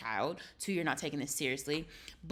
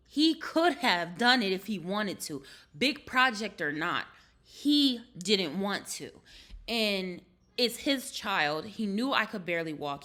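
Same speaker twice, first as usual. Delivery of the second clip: slow, louder and emphatic; angry; 2 semitones higher, 5 dB louder, slower than usual. Real, not acted. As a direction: hammer each point home slowly. Angry rant about partner.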